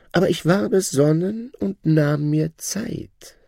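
high, proud voice of a boastful shadow; shadow's voice. Acted. Shadow bragging to his old master, high voice. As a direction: lift the voice high and show off new wealth.

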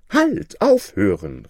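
hoch und laut gerufen; lauter Ruf. A narrator's reading. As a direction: schrei Halt, um alles zu stoppen. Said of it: "rief er". (laut rufend)

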